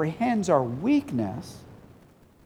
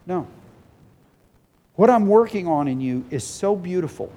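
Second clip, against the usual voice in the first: voicing the Father. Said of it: "the Father says".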